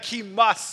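short line with firm weight on "must"; emphatic MUST. Shown as a demonstration. Preacher underlining Jesus' emphatic word, stressing "must". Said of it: "It's emphatic".

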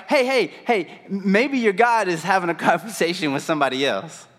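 high-pitched taunting calls; mocking. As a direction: call out to taunt the rivals. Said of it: "he even starts mocking them".

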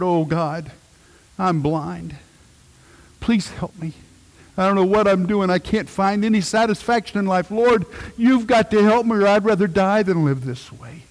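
begging God for help, rising desperation; pleading prayer retold. Preacher retelling his own desperate prayer, building plea. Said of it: "cried out to God".

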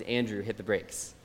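calm. Retold or imitated. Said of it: "my mom looks over at me very calmly and says".

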